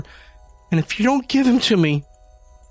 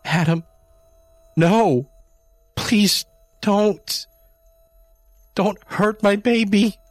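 shrieking plea; 12 semitones higher, slower than usual. A narrator's reading. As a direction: shriek at him to stop. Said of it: "Jamie shrieked".

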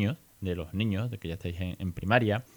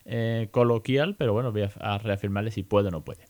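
retold self-talk; 2 semitones higher, 4 dB louder than usual.

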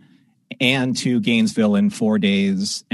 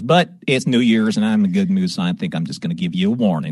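lightly imitated Texas trooper accent, lower; trooper's accent; 3 semitones lower, 4 dB louder, faster than usual. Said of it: "you have the accent".

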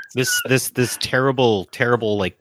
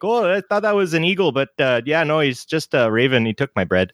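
put-on Manitoban Canadian accent; 3 semitones higher than usual. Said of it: "hashtag Manitoban Canadian, being like".

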